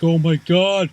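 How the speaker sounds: panicked exclaiming, pitched high; high-pitched retold panic; mock freak-out. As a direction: imitate someone freaking out. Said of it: "and he's freaking out".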